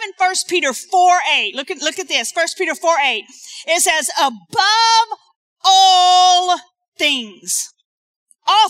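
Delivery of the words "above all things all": higher, louder on above; emphatic shout. Real, not acted. Preacher proclaiming scripture to the congregation, shouted.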